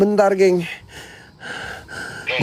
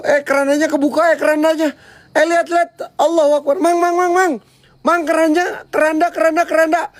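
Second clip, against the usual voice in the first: frantic panic; 5 semitones higher than usual. Real, not acted. Coffin opens, frantic yelling.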